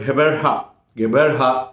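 Gqeberha said as "Geberha"; Gqeberha pronunciation attempt. Shown as a demonstration. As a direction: try the hard name Gqeberha as "Ge-ber-ha". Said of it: "అని నేను పలుకుతున్నాను, అది కూడా correct కాదు".

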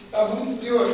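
shivering from the cold; slow, teeth-chattering shiver. Real, not acted. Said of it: "tô morrendo de frio".

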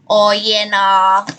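broad, drawn-out Australian "Oh, yeah, nah"; strong Australian accent. Shown as a demonstration. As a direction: lay the Australian accent on thick, lightly. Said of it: "like that if I was".

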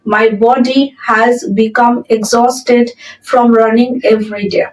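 very slow, word by word dictation; slow model sentence. Shown as a demonstration. Teacher reading the example sentence aloud to students, very slow and clear. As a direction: spell it out slowly for learners. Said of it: "পরের সেন্টেন্সটা".

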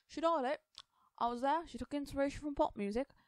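talking with mouth full. A narrator's reading. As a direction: speak through a mouthful. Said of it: "said with his mouth full".

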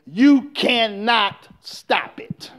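slow, whispered "you cannot stop it". Real, not acted. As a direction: lean in and whisper it slowly. Preacher drops to a whisper.

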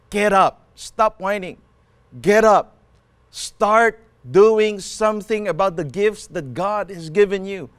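forceful preaching with punched commands. Real, not acted. Preacher urging the church to get up and walk, preaching forcefully. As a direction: drive each command home, pausing between.

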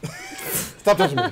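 high, slow whiny voice; squeaky whine. Acted. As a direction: whine it out like a cartoon.

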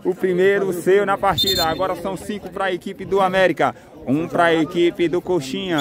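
stretched-out goal call; explosive goal commentary. Acted. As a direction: draw out the goal like a TV announcer. Second goal in play-by-play.

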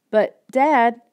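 high, loud plea; boy pleading with dad; loud protest. A narrator's reading. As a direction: cry out in protest.

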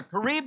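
karibu said clearly, rising at the end; leading the call. Shown as a demonstration. Preacher prompting the congregation to repeat, rising lead. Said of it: "Can you say it together?".

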